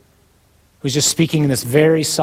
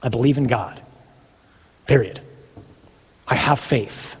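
declaration of faith; 3 semitones lower than usual. Retold or imitated. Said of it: "I declare in front of hell".

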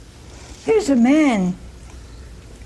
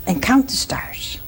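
hushed whisper. Acted. God speaks to Abraham under stars.

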